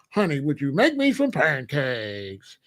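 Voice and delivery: hammed-up radio host sweet-talking; put-on DJ delivery for a household request; DJ voice at home. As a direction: croon it like a mock disc jockey. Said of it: "He's got his D J voice".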